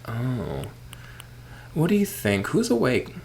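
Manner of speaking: villager voice. Acted. Voicing a game villager.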